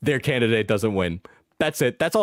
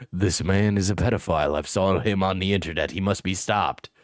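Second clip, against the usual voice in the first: mock outraged poster; 6 semitones lower than usual. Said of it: "followed by".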